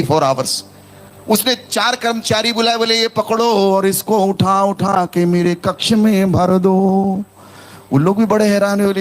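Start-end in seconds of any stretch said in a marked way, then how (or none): 3.0-7.2 drawn-out order. Acted. Prince orders four workers, acted.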